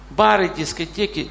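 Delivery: ordinary talk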